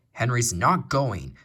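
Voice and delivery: slow, rude refusal. Acted. Gordon rudely refuses the Fat Controller, slow and rude. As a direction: drawl it out rudely. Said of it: "said Gordon rudely".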